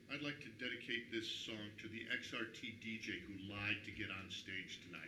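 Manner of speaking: quiet, cutting sarcasm; snide dedication. Retold or imitated. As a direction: say it low with a sneer. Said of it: "he says".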